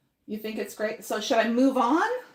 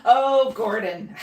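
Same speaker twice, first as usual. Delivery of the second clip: laughing; 4 dB louder, slower than usual. Real, not acted. Laughing at the viewer's comment.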